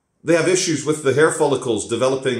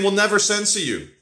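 mocking Russian recruiter; 5 semitones higher than usual. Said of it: "They're saying".

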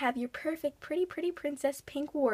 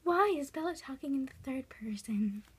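dazed whisper; 6 dB quieter than usual. Acted. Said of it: "talking like a dazed cow".

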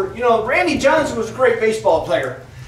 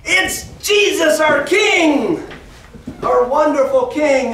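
high, drawn-out shouts of praise; slow, soaring acted acclamation; jubilant shouting; 8 semitones higher, 4 dB louder, slower than usual. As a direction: shout like a cheering crowd hailing a king. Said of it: "they were just shouting out".

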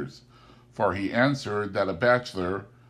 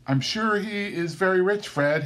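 hinting; 9 semitones higher than usual. A narrator's reading. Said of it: "hinted Scrooge's niece".

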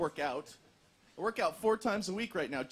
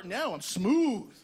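usual speaking voice

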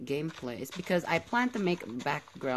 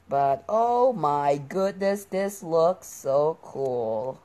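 drawn-out amazement, louder; slow awe; 6 dB louder, much slower than usual. Real, not acted. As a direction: stretch it out in wonder. Marvelling at the build.

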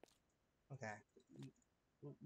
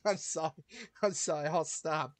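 louder, rapid I'm sorry after laughing; loud apology; 3 semitones higher, 8 dB louder than usual. Real, not acted. Apologizing to viewers after the crude joke, loudly. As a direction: blurt sorry over and over, loud.

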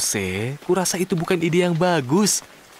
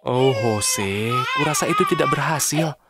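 tearful. Acted. Sad, cloud won't get better.

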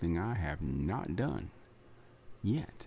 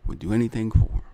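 usual speaking voice

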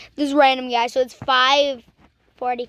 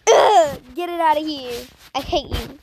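mock disgust. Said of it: "I would be like".

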